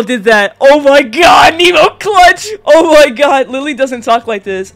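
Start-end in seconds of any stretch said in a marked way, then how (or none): 0.6-3.5 high, loud celebratory shout; hyped-up gamer cheer; ecstatic. Real, not acted. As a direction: yell in amazed relief. Celebrates friend saving round.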